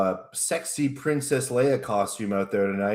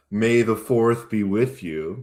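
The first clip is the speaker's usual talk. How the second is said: Darth Vader voice. Acted. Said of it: "Dark Vader impersonation".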